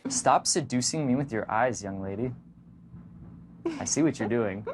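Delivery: low mock-stern flirty tone; playful mock accusation. Shown as a demonstration. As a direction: tease her with a fake scold. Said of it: "You might say".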